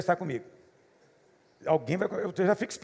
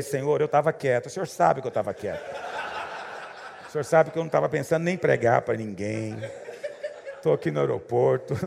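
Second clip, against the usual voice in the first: laughing mock prayer; 4 semitones lower than usual. His amused inner prayer.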